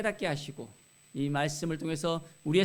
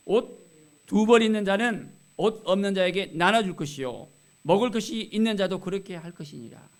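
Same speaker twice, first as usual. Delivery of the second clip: declaimed Bible verse, starting loud; firm, projected verse reading; scripture reading; 4 dB louder than usual. Acted. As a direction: read it out as pulpit instruction. Reads scripture aloud to congregation.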